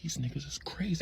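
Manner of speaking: under-the-breath stunned aside; quiet, private disbelief; hushed aside. Retold or imitated. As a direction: say it very softly to yourself. His stunned thought as he watches.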